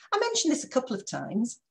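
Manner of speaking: a reproachful reminder; pointed reminder. Shown as a demonstration. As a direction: stress on I, edgy and rising. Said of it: "put so much aggression".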